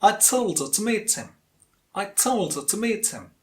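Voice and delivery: TOLD and MEET on the beat, "her to him" reduced; stress-timed model. Shown as a demonstration. Teacher has learners repeat after her, stress-timed. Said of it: "You can repeat after me".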